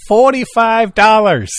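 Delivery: high, slow scalper naming his price; pushy ticket tout. Acted. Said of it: "You can sit at the front door".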